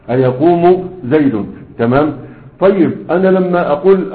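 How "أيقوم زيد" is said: أيقوم زيد said slowly, every syllable and case ending spelled out; slow careful reading. Shown as a demonstration. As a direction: read أيقوم زيد slowly with full vowel endings, like a teacher.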